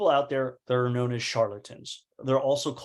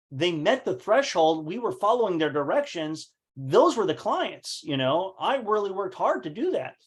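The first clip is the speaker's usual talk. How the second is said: insistent, raised protest; 5 semitones higher than usual. Retold or imitated. Arguing back at partner.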